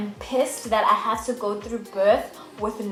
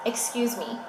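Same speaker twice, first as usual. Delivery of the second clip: affronted, with a falling end; indignant statement; 3 semitones higher than usual. Retold or imitated. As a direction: say it as a firm objection. Indignant reply to refused epidural.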